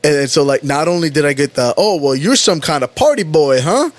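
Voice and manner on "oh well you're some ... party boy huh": tag mocking sergeant. Voicing drill sergeant's taunt.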